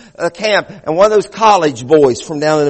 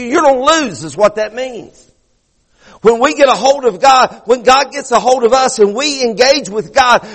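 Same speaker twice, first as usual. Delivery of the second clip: high, driving sermon delivery; fervent preaching; 6 semitones higher than usual. Real, not acted. Preacher urging the congregation about Jacob wrestling God, fervent preaching. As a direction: preach it hard, stretching the key words.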